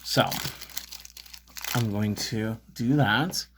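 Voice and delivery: slow, mystical fortune teller voice; psychic voice. Pretend. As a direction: play a psychic channeling spirits. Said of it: "so I'm gonna pretend to be a psychic".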